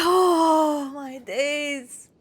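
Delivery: slow, drawn out then bursting into laughter; giddy laughter. Real, not acted. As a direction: savour it and crack up. Joyful disbelief.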